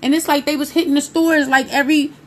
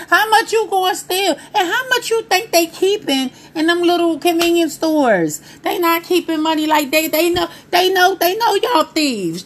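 high, exasperated rant at the thieves; comic pitched-up indignation; incredulous mock scolding; 7 semitones higher than usual. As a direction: question them like it's absurd.

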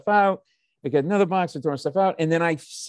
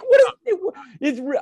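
much higher and louder, exasperated; incredulous outburst; 12 semitones higher, 6 dB louder than usual. Retold or imitated. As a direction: blurt it out in shocked disbelief. Disbelief at mother's cheese excuse.

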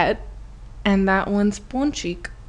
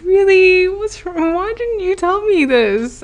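high-pitched mock-mom questioning; high, exaggerated parental dismay; exasperated mom; 12 semitones higher, 6 dB louder than usual. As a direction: imitate mom reacting in a high voice. Mom reacts to news, retold.

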